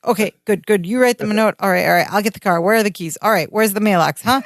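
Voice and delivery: rattled-off flustered list; lightly acted panic; mild mock panic. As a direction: run the phrases together as if flustered. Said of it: "Larry starts to panic".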